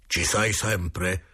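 very slow, solemn calling voice; séance medium. Acted. The medium asking the spirit if it is still there, very slow. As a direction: draw each word out as if into the beyond.

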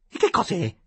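irritated at the interruption; angry question. A narrator's reading. Lady angrily questions the servant's announcement. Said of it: "domandò con rabbia".

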